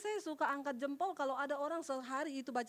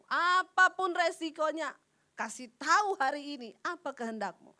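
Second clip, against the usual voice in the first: urgent prayer; 8 dB louder than usual. Retold or imitated. Pleading prayer to God.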